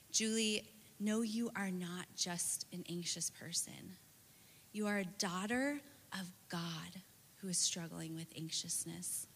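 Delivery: soft near-whisper, gently correcting; tender reassurance. Retold or imitated. To a crying friend in the car, softly reassuring. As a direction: lean in and speak it softly to her.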